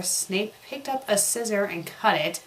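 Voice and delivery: usual speaking voice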